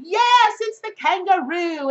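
put-on Australian accent. Australian accent confirming the card to viewers. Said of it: "I'm done with my Australian accent".

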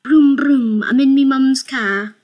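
put-on high loud childish brag; loud, high mock kid bragging; silly kid voice. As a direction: shout it like a kid in mum's car. Silly car noise and quote.

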